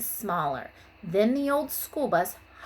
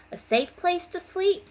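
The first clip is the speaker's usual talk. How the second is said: put-on high, bright little-girl line; child character voice; 10 semitones higher, 5 dB louder than usual. Teacher reading Wanda's answer to the class, high and eager. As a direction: chirp it out as young Wanda.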